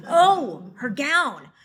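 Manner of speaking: high, loud laugh of realisation; laughing at her own mistake over the gown; embarrassed laugh. Acted. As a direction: laugh it out, caught out and flustered.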